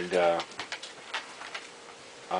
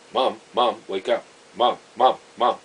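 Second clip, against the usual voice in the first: urgent louder calls of Mom; calling to wake her; 4 dB louder than usual. Retold or imitated. Daughter calling her dying mother to wake, urgent and louder. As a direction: shake her awake with your voice, repeating Mom.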